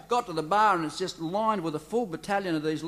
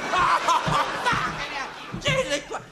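much higher, very slow stretched cry; drawn-out howl; 10 semitones higher, much slower than usual. Acted. Patient howls at the hot coffee, slow stretched cry. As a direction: howl it out long.

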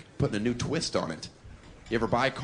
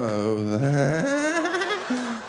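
nervous white audience member; 10 semitones higher than usual. Retold or imitated. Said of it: "some white people are like".

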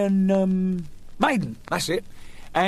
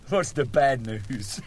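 slower, near own voice; patient asks, retake; 2 semitones lower, slower than usual. Acted. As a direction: calmer corrected line. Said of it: "We better start again".

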